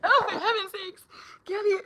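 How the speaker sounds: high, through laughter; real laughter in the words; laughing. Real, not acted. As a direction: squeal it out while laughing. Laughing hard at a story.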